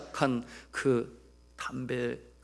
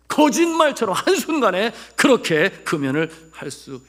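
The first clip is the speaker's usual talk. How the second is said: raised, loud pulpit marvelling; forceful preaching; 8 semitones higher, 11 dB louder than usual. Real, not acted. Preacher testifying to instant quitting, forceful preaching. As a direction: proclaim the sudden change.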